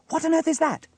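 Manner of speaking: put-on very high, loud child's question; astonished question. A narrator's reading. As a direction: ask it in loud disbelief. Child baffled by odd machine.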